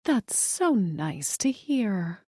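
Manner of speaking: slow, forced politeness; through gritted teeth. Acted. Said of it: "gritting her teeth".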